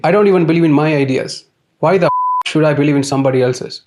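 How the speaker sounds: rising exasperated burst; exasperated outburst. Real, not acted. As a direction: blurt it out in irritation. Exasperated rant about believing.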